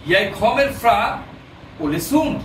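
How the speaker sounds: Norwegian line read out very slowly; very slow teaching read. Shown as a demonstration. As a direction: read it syllable by syllable for the class. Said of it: "আনে".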